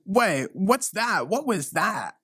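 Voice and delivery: slow, high startled question; mock startled. Granddaughter hearing a mall ghost, mock startled. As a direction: act spooked by a noise.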